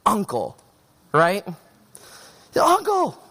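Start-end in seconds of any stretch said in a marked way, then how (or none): 2.6-3.2 high-pitched pretend plea; mock cry for mercy. Child pinned in rough play begging to quit, mock cry for mercy. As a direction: cry uncle in a much higher voice. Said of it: "like a cry for mercy".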